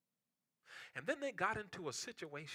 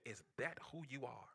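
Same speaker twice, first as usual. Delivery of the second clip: voice of the Holy Ghost; 10 dB quieter than usual. Retold or imitated. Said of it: "the Holy Ghost said".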